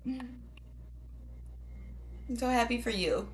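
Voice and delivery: high, drawn-out mock gushing; fake happiness. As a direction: say it sweetly without meaning it. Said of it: "It's fake".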